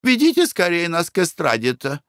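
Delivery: high-pitched disgusted lady; shrill-free high fussy wife voice; Glafira, squeamish lady. Acted.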